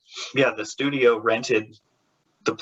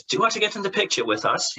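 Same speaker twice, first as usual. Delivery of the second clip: polite offer; 8 semitones higher than usual. Retold or imitated. Quoting British actor's polite offer.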